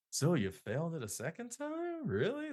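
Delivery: skeptical, condescending coworker; mock disbelief, high-pitched. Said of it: "There'd be like".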